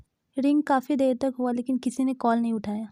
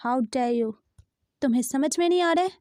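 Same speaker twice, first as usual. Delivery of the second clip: angry caller. Acted. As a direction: snap at him, outraged. Angry voice on the phone. (गुस्से में तेज़ी से डाँटते हुए)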